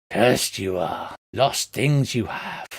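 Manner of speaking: low, slow possessed seer; ominous oracle voice; changed trance voice. Acted. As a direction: intone it slowly and low, as if possessed. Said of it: "a voice changes".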